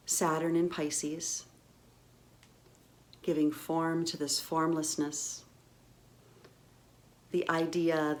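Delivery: measured phrases with long pauses between; contemplative recitation. Real, not acted. Guide introduces love as absolute to listeners, contemplative. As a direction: let each word settle before the next. Slow contemplative reading of a definition.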